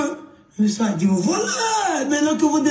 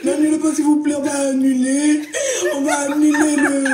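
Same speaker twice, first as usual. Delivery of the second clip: fake sobbing. Sobbing plea to the manager.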